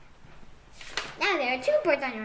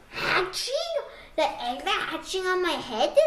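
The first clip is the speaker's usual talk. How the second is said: laughing disbelief; 4 semitones higher than usual. Acted.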